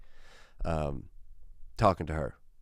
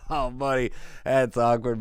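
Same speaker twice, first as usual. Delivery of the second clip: laughing it off; 3 semitones higher than usual. Pretend. Imagined good dad brushes off an awkward moment, laughing it off. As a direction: pretend chuckle into friendly words. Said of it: "He'd laugh it off and be like".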